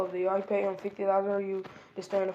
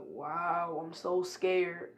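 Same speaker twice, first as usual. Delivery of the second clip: sarcastic; 2 semitones lower, 4 dB quieter, much slower than usual. Retold or imitated. Naruto mocks Sasuke's threat.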